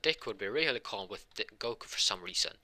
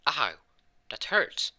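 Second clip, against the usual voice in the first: high, loud yelp of hurt; mock cry, pitched right up; acted pain; 7 semitones higher, 7 dB louder, slower than usual. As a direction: complain sharply as if in pain. Character cries out in pain.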